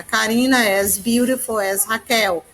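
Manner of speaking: slow, careful English for learners; teacher reading an English example slowly to students; slow example sentence. Shown as a demonstration. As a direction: spell it out word by word for the class. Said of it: "Ah, Karina".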